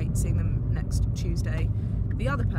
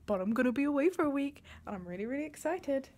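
high rising voice; 5 semitones higher, 4 dB quieter than usual. Real, not acted. Vlogging to camera about her week away, voice going high at the ends. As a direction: voice climbing high at the end of lines. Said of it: "I don't know why I'm talking like this. My voice is going really high at the end".

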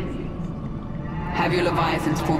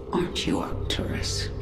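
menacing whisper; 4 dB quieter than usual. Acted. Taunting the trapped emperor.

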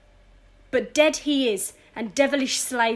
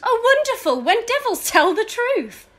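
scornful sarcasm; 9 semitones higher, 4 dB louder than usual. Acted. Lady scorns the villain.

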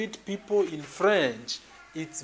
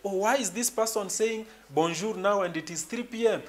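higher-pitched, imagined puzzled reaction; mildly surprised; 5 semitones higher than usual. Pretend. Teacher voicing a learner puzzled by an afternoon bonjour, mildly surprised. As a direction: lightly act out someone taken aback. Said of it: "So don't be surprised".

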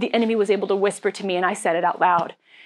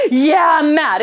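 mock mad; 7 semitones higher, 8 dB louder, slower than usual. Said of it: "And I was like".

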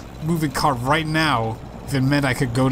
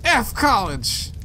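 put-on drunken cheer; 8 semitones higher, much slower than usual. Drunk friend cheering in car.

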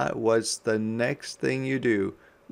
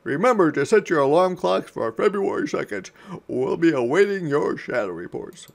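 commanding; 5 semitones higher, 5 dB louder, faster than usual. Acted. Professor orders the graduates.

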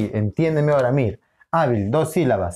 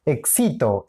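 "Éxito" wrongly stressed as ek-SI-to; stress on middle syllable; slower than usual. Shown as a demonstration. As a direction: move the accent of "Éxito" onto SI. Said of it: "La ubicación del acento". («Éxito» con acento en la sílaba SI: ek-SI-to)

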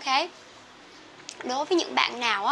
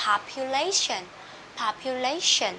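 POPULATION stressed on LA, then dipping gently. Shown as a demonstration. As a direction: model POPULATION with main stress on "lay". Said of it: "cái dấu nhấn đi xuống tức là mình xuống nhẹ". (nhấn LAY trong POPULATION, xuống nhẹ)

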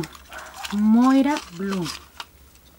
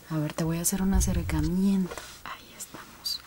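whisper; 4 semitones lower, 10 dB quieter than usual. Real, not acted. Close-up while fitting lens.

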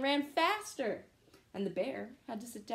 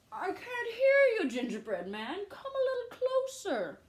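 crafty fox; 11 semitones higher, 3 dB louder than usual. Acted. Fox luring the gingerbread man closer, sly and high. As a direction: lure him in sweetly.

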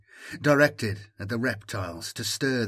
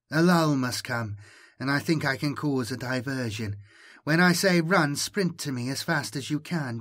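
higher, coaxing machine-mind voice; an ancient voice tempting Jomi to come; persuasive alien voice; 3 semitones higher than usual. Acted. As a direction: lure the boy gently toward you.

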